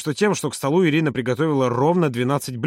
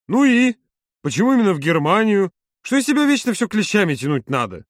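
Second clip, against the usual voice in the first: high, exasperated questioning; indignant; 7 semitones higher, 4 dB louder than usual. A narrator's reading. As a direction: push for answers in raised-pitch indignation. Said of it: "возмутился Женя". (возмущённо, на повышенных тонах)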